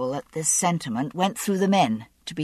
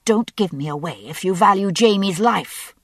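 melodramatic hiss; 3 semitones higher, 4 dB louder than usual. Acted. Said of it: "I hissed melodramatically".

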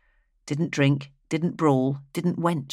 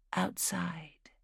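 whisper; 2 semitones higher, 12 dB quieter than usual. A narrator's reading. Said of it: "she had whispered".

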